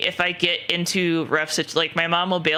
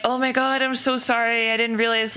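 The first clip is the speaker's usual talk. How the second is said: higher, gushing sympathy; sympathetic friend; 6 semitones higher than usual. Retold or imitated. Friend gushing sympathy on hearing the news, high voice. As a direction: gush sorry like a shocked friend. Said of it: "And they're like".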